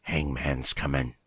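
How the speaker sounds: low, slow, ominous croak of a talking raven; creepy raven voice. Retold or imitated. Imitating Raymond the raven's creepy phrase, low and eerie. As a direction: make it sound like a bird that could haunt you. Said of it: "he says one phrase over and over".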